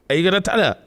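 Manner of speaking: high, imploring question; mock pleading. Tamlin kneeling and asking Reese, mock pleading. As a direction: ask it as an imitated beggar.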